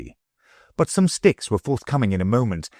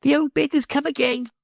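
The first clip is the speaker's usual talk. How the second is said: shouting. A narrator's reading.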